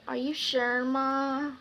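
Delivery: softly put-on reluctant pleading; a mild pretend sadness, hesitant; acted sad. Daughter faking it to stay home, mock sad. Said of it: "I acted so sad".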